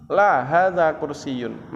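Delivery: LA stressed, then slow "hadza kursiyun"; proper answering intonation. Shown as a demonstration. Teacher modelling the negative answer, with proper intonation. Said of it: "menggunakan intonasi yang tepat".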